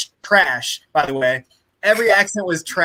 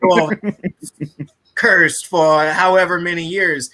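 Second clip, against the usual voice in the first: mock intense. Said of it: "stare intensely into the camera and say".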